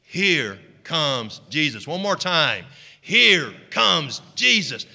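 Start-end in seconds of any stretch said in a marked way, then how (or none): 3.0-4.8 building call. Shown as a demonstration. Congregation repeats it one more time.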